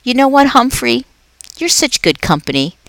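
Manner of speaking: a jolly night janitor chatting to a pet; upbeat, chatty custodian; Aldo the cheerful janitor. Acted. Aldo at dinner break.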